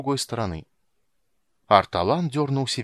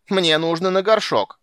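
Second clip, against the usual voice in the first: loud, higher petulant announcement; capricious whine; 6 semitones higher, 6 dB louder than usual. A narrator's reading. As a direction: whine it like a spoilt old child. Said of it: "капризно объявил он". (капризно, громко и высоко)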